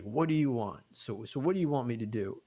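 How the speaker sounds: hammed-up irritated phone voice; imitating angry man. Caller on the phone barks at the web designer, mock angry. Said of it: "so angry".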